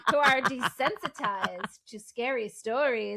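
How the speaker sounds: slow, deliberate storyteller imitation; Grams telling a scary story. Podcaster imitating Grams introducing a scary story, slow storyteller voice. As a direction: stretch the words out like Grams. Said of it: "just her telling the story was".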